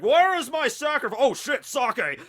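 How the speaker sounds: high, loud, bellowing snake monster. Retold or imitated. Giant snake at the gate spotting sake, loud bellowing monster. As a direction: roar it, then delighted at the sake.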